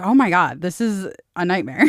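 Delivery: loud, alarmed "oh my God"; panicked outburst. Retold or imitated. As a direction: blurt it out in mock horror. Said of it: "And so I'm like".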